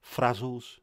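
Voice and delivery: put-on Brummie lilt; name the snack in Brummie; Brummie accent. Shown as a demonstration. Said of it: "much better in a Brummie accent".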